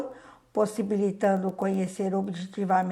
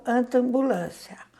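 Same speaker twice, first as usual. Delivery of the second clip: slow demo word; 2 semitones higher than usual. Shown as a demonstration. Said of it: "Ao pronunciarmos essas palavras".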